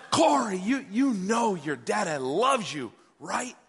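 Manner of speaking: insistent mock yell, slowing on the words; retold yelling. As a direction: press the point like an exasperated new dad. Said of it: "And I, and I'm yelling".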